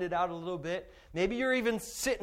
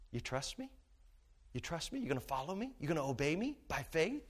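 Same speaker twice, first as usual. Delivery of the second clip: the Lord asking softly; 2 semitones lower, 9 dB quieter than usual. Acted. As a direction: ask it quietly, gently testing. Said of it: "and the Lord says".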